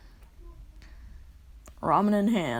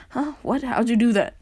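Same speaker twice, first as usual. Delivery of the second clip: loud, mock-astonished outburst; blurted questions, playing stunned; startled reaction; 3 semitones higher, 6 dB louder than usual. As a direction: act out a friend's baffled amazement. Acted startled friend after teleport.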